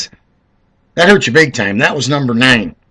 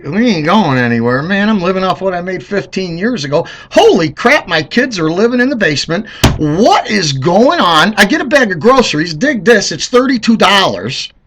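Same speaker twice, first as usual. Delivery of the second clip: imitating struggling Americans; 5 semitones higher than usual. Vlogger mocking fed-up Americans, higher griping voice. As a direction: whine about prices like a broke voter. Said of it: "We're like".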